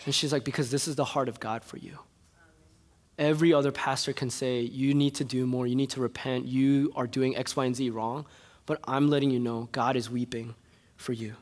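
softly, tenderly; the mentor softly comforting the angry young man; gentle mentor. Retold or imitated. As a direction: quote her like a caring mentor consoling you. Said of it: "came up to me and said".

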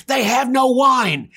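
high, loud, drawn-out outburst; exploding. Acted. Mother to Jesus at the wedding, exploding in frustration. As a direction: explode on him in exasperation. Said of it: "She exploded on him".

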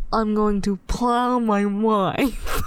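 slow seductive bedroom voice; pillow talk voice. Shown as a demonstration. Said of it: "Got a really good pillow talk voice there".

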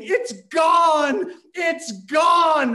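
high, loud panicked shout; panicked screaming. Retold or imitated. Son on phone to parents, screaming in panic. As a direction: scream it like the house is lost. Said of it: "I just started screaming".

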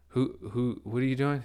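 retold baffled question; confused. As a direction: imitate a confused coworker. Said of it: "he's all confused".

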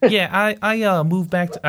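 put-on sputtering Australian accent, giving up fast; failed Australian accent. Host tries an Australian accent for Rick, then stalls. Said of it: "I was trying to do an Australian accent".

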